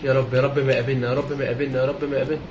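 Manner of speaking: low, soft repeated plea; nervous prayer. Real, not acted. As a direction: mutter a quick anxious prayer under your breath. Nervous repeated prayer in horror game. (دعاء متوتر بصوت واطي)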